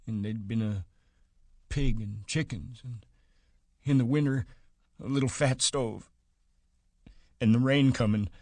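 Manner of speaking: put-on half-chant the old words wistfully; sing-song. A narrator's reading. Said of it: "went on in a sing-song".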